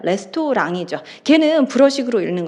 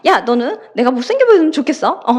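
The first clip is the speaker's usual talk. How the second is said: irritated retort, a touch louder; flaring up; 3 semitones higher, 4 dB louder than usual. Retold or imitated. Hyori flaring up at her friend, mildly offended. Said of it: "발끈하면서".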